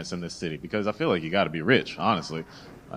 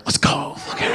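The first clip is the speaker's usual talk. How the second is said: lightly put-on white guy cheer; imitated white guy. Comic teasing an audience member, mock white guy cheer. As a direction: imitate a white guy's hype call. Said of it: "Like a white guy over here".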